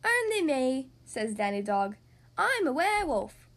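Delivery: loud put-on monster voice; spooky werewolf voice. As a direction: growl it like a werewolf. Danny Dog reveals werewolf costume.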